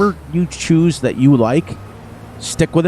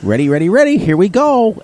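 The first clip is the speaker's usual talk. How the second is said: hyped up; 6 semitones higher than usual. Real, not acted. Hyping up the outro.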